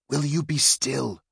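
sharp, scolding question. Acted. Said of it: "Aristide scolded".

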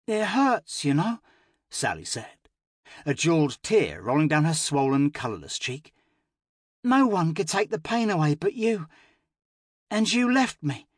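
put-on high, hurt child's voice; tearful little girl. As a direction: say it like a crying child. Crying child reproaches.

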